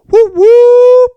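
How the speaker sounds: very high, loud whoop whoop cheer; mock celebration. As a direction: cheer like you've won. Celebrating clothing being optional.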